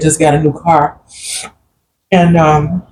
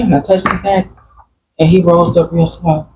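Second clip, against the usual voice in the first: normal talking voice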